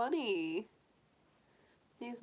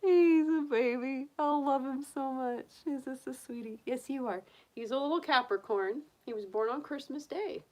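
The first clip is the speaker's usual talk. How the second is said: higher-pitched doting coo; adoring gushing; 6 semitones higher, 3 dB louder than usual. Real, not acted. Gushing over her pet bunny.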